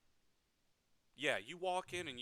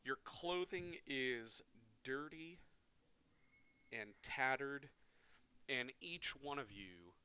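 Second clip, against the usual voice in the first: game master scene setting. A narrator's reading. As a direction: paint the dungeon scene for the players. GM describes the captive scene.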